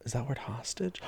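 very soft mock check of the script; quiet aside. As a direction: drop right down to ask the prompter.

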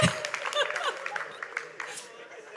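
high airless giggle; soft high giggle; breathy giggle. Real, not acted. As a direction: let it out with no voice. Pastor laughing at story.

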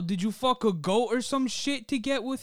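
loud, high mock-mobster outrage; hammed-up Italian-American wiseguy rant; Tony Soprano. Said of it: "Tony Soprano is the New Jersey Devil".

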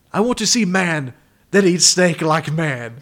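a hammed-up proud Brazilian chef; slow, booming mock Brazilian accent. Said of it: "killer Brazilian accent".

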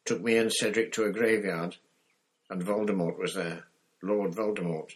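put-on breathless boy blurting out the news; shaken boy. Harry gasps out the graveyard story to Moody, shaken.

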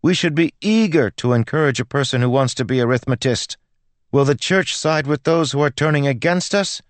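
high, loud indignant tirade. A narrator's reading. Girl shames the vicar before the cathedral, very loud. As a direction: make a public scene, ringing out. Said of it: "Melody said very loudly".

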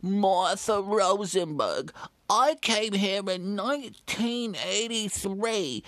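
put-on slow, low old lady voice; Martha, slow. Old woman slowly tells the son her history. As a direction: drawl out her name and story like a grandmother. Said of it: "my name is Martha".

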